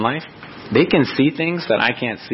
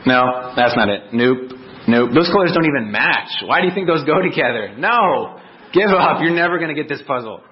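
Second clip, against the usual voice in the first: aloof dismissive father; 4 semitones higher than usual. Retold or imitated. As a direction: brush the child off, then snap at him. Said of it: "be all aloof and just say".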